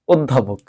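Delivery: অধ্যাপক said as ওদ্ধাপোক, joined up; correct pronunciation. Shown as a demonstration. Teacher answering own question, অধ্যাপক with closed o. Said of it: "কি উচ্চারণ করব?".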